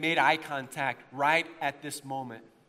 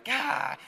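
high-pitched mock "gah"; exasperated groan; 8 semitones higher than usual. Pastor caught out as a Southerner, exasperated. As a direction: cry out in playful dismay. Retold dismay at being placed.

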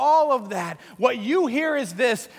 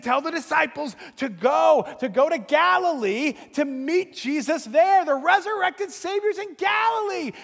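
urgent message; 5 semitones higher than usual. Retold or imitated. Retelling the angel's message.

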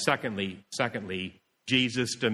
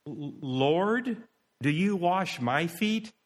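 mildly wondering, a little raised in pitch; puzzled question; 5 semitones higher, much slower than usual. Shown as a demonstration. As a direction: ask with restrained wonder. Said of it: "Or he could have said it".

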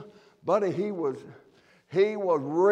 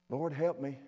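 a soft prayer said under the breath, much softer; under his breath; 6 dB quieter than usual. Retold or imitated. Nehemiah praying silently before the king, hushed and soft. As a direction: pray it quietly from the heart. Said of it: "under his breath".

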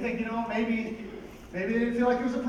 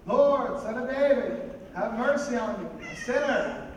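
slow-motion call; 4 semitones higher, 5 dB louder, slower than usual. Acted. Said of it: "I'm gonna go in slow motion".

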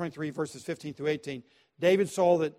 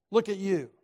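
higher and a bit louder, sneering; contemptuous scolding; 4 semitones higher, 4 dB louder than usual. Retold or imitated. Saul sneering at his son, contemptuous. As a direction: look down on him as you say it.

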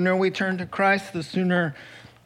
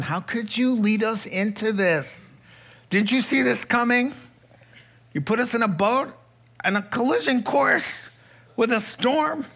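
higher-pitched, incredulous accusing questions; biting sarcasm; 5 semitones higher than usual. Acted. Disciples blaming Jesus for the storm, acted biting sarcasm. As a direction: throw it at him as a sarcastic reproach. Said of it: "they go with biting sarcasm".

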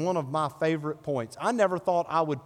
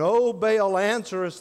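shouted; 5 semitones higher, 3 dB louder than usual. Acted. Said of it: "they shouted".

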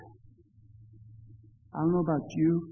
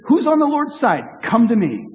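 raised, higher call to the crowd; Moses shouting; 5 semitones higher, 6 dB louder than usual. Retold or imitated. Moses calling the camp to choose sides, a raised rallying call. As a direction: call the people out with a mild rally. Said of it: "Moses shouted".

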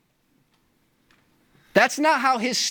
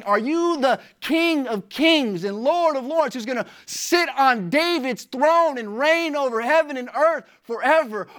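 rising from raised to markedly higher pitch; building preacher's fervor; 4 semitones higher than usual. Real, not acted. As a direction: drive each question toward a climax. Sermon's list of questions builds to climax.

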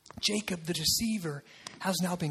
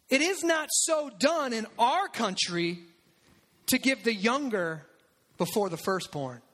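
Laban's reply. Acted. Preacher voicing Laban's calm rebuke to Jacob. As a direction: lean on each word like a wily host. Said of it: "I'm gonna say it like he probably said it".

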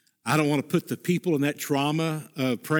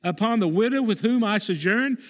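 pleading cry; 5 semitones higher than usual. Acted. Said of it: "He says".

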